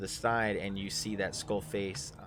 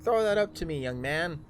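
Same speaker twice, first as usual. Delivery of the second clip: commanding drow; 7 semitones higher, 4 dB louder than usual. Acted. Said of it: "is like".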